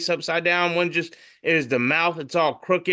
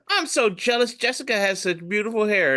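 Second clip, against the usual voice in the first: jealous; 5 semitones higher than usual. Acted. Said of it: "and one's jealous".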